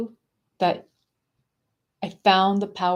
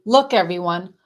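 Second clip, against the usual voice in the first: taunting father, a little louder; mild mock of the dad ridiculing her breathing; 4 dB louder than usual. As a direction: jeer at her in front of the family. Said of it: "he would gather the whole family around and say".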